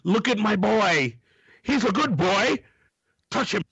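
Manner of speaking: high, stretched-out mock mom voice; pushy mom. Mom pushing her son's Polaroid on strangers, high hammed-up pleading. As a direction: play an overeager mother showing off her boy.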